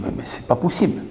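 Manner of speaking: breathy whisper; whispered disbelief. Retold or imitated. Stupeur du narrateur citée. (chuchoté, incrédule)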